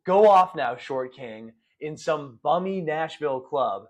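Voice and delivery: drawn-out rhymed verse recital; slam poetry. Acted. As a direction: punch the line openers, stretch out each rhyme. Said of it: "slam of slam poetry".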